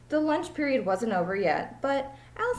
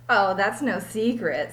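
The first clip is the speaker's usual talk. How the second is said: louder, slow amused reply; 6 dB louder than usual. Acted. Allison laughs off the teacher's secret, loud and slow. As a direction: laugh it off with confidence. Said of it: "said Allison".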